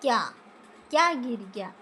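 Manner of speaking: teacher stressing the corrected क्या. Shown as a demonstration. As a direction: lean on क्या. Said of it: "कौन ना हो के".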